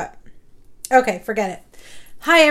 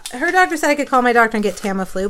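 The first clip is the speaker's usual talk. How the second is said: ordinary talk, nothing marked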